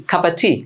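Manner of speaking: খাপা tea, cup and of run together as "cuppa"; casual linked খাপা before tea; spoken reduced form. Shown as a demonstration. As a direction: blend it into খাপা, ending on a loose "uh". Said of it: "spoken ইংলিশে বলা হয়".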